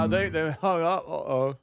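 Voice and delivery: put-on playful Aussie accent on the reaction; Australian accent. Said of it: "Your Australian accent, by the way, is fantastic".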